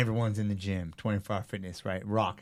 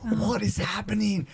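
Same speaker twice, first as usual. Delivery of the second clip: bewildered; 10 semitones higher than usual. Retold or imitated. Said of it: "I'm like".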